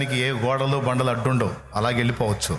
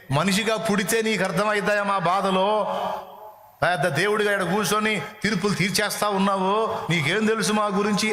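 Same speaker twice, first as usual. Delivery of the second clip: higher, indignant protesting voice; mock complaint to God; 8 semitones higher than usual. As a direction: whine it like someone accusing the judge. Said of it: "అని dialogue మనం వేస్తాం".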